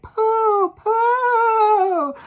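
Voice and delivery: very high, loud witch cry on Pooh; shrieking hag disgust. A narrator's reading. Witches shrieking in disgust at the stench. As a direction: screech it like a hag.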